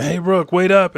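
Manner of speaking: high, loud mock holler; acted calling out. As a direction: call after someone running off. Frankie calls after running Brook.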